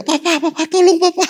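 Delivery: put-on high, frightened child's call, half laughing; mock panicked child's cry; child crying for help. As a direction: imitate a scared child calling Papa. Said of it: "anak saya udah teriak".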